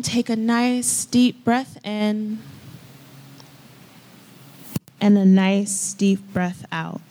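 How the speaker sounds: measured guided-meditation delivery with long pauses; unhurried breathing cues, spaced apart. Real, not acted. Leads a breathing exercise.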